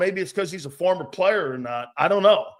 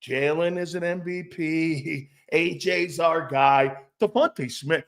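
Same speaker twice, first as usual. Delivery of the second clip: mock reassuring coach; 2 semitones lower, slower than usual. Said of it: "patting everybody on top of the head".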